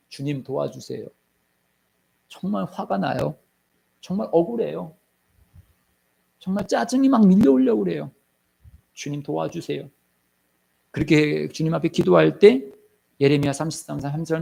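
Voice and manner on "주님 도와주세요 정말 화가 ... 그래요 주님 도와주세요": soft, earnest prayer to the Lord; quiet prayer. Shown as a demonstration. Believer praying honestly to the Lord, soft. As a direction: confide your anger to God softly. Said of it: "어떻게 해야 되느냐?".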